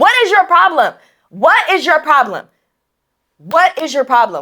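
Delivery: acted-out angry shouting, going off. Retelling a confrontation with a kid on a bike, retelling yelling at him. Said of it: "I go off".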